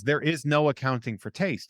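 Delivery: sincere, evenly voiced reassurance; sincere and non-judgmental; earnest. Real, not acted. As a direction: say it earnestly, meaning every word. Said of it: "I mean it so earnestly".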